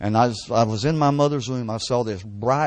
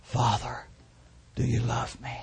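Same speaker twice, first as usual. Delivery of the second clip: quiet prayer; 6 dB quieter than usual. Shown as a demonstration. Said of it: "we just lead them to say".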